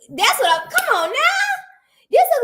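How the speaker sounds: squeaky high come on now; high protest. Real, not acted. Host protesting the ugly photo in a high whine.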